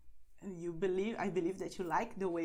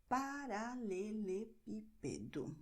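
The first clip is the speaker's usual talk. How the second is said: paralelepípedo slowly, syllable by syllable, stressed on PÍ; stress on accented syllable; 4 dB quieter, slower than usual. Shown as a demonstration. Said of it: "you go and stress this syllable".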